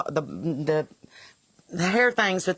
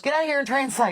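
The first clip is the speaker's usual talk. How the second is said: imitating dad; 8 semitones higher than usual. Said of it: "Dad goes".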